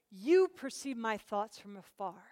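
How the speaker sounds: slow reading, "You" held long; measured, with "You" stressed and drawn out; emphatic YOU. Acted. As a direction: press on "You" at the start. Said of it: "What does emphatic mean?".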